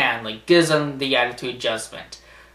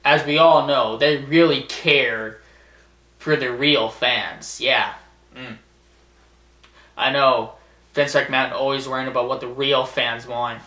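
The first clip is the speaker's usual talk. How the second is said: sarcastic. Real, not acted. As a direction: feign belief that they care, with dry sarcasm.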